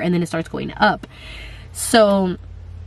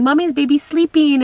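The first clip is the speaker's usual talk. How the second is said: lightly imitating her kids; 7 semitones higher, 3 dB louder than usual. Kids talking to the baby at night, lightly cooing. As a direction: hush it like a little kid to the belly. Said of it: "They'll be like".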